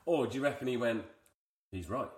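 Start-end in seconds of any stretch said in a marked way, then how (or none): 1.7-2.1 lightly voiced Egyptian accent, kept small. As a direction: try a modest Egyptian accent. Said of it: "Here's my Egyptian".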